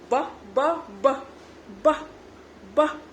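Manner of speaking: ब as a short burst of air; airy phonics sound. Shown as a demonstration. Mother teaching B for ball, short puffed ब sounds. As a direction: pop out each ब separately, short and puffed. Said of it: "हवा जैसा निकलेगा".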